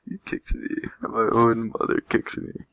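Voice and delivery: put-on high, loud outraged child's scream. Melody to her mother, screaming accusation. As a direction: cry out as if betrayed. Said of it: "Melody screamed".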